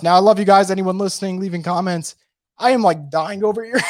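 losing my voice, hoarse; rough, worn-out hoarse voice. Real, not acted. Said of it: "dying over here in terms of losing my voice".

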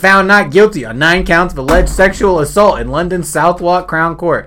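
news read. Shown as a demonstration. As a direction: read it out like a bulletin. Reads news item aloud.

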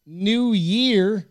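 mock German accent, drawn out; slow, high put-on German accent. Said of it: "That's me doing German accent".

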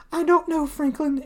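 high, mock-tearful whine; Debbie crying. Girlfriend tearfully answering Franklin, high mock-weepy voice. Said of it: "Why are you crying".

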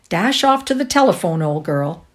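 put-on loud, cheery older brother; brotherly call. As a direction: send her off cheerfully. Brother teasing sister.

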